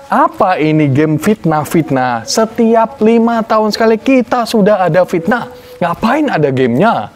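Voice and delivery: lightly voiced comic rant; Tretan Muslim imitation. A hint of Tretan Muslim ranting about games. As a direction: mimic a comedian's indignant bit. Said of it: "Bagaimana Tretan Muslim berbicara".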